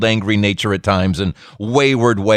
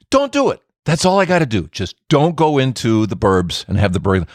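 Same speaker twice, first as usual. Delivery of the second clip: voice of God. Acted. God voiced warning the prophet.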